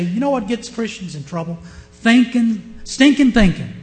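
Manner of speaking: put-on thick Southern accent. Preacher quotes an old Baptist preacher, light thick-Southern imitation. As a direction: build to a loud Southern-accented punchline. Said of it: "he had that thick Southern accent".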